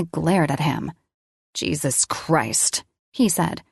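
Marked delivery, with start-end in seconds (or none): 1.5-2.8 stunned. Acted. Colin stunned.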